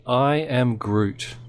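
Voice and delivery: slow, laughing Groot line; lightly voiced Groot. Shown as a demonstration. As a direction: drawl it out as Groot, between laughs. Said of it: "repeat after me".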